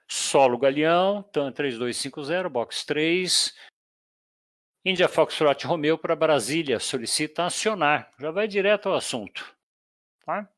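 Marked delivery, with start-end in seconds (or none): 0.1-8.1 leitura de fonia como piloto; piloto no rádio. Shown as a demonstration. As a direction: chame o solo com clareza. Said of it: "ele vai chamar o quê". (piloto pedindo acionamento ao solo)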